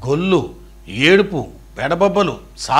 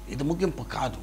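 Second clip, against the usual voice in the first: much softer, lower repeat of ఇది ముగింపు కాదు; soft echo; 3 semitones lower, 14 dB quieter than usual. Shown as a demonstration. Preacher echoing to listener, soft hush. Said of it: "It is not a end".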